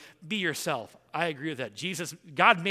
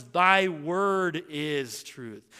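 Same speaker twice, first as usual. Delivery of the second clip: very slow, every word drawn out; quoting scripture; much slower than usual. Acted. Preacher reading scripture aloud, very slow and solemn. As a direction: stretch it out like a solemn verdict. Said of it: "The Bible says".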